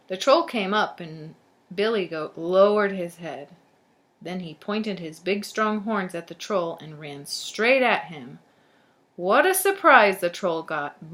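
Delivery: put-on lively storybook narration to children; storyteller reading aloud; story read-aloud. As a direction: read it out clearly for young listeners. Reads a tale to children.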